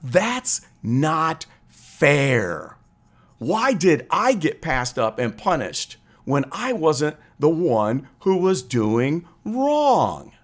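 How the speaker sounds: very slow, drawn-out wounded protest; inner complaint. Retold or imitated. A punished child thinking to himself, slow wounded protest. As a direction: let each word drag like a hurt kid. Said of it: "you're thinking in your mind".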